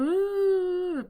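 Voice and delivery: high whimpering uh to show crying; a short high sob-like sound, half-acted; imitating a whimper; demo crying sound. Shown as a demonstration. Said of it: "o yo estoy llorando".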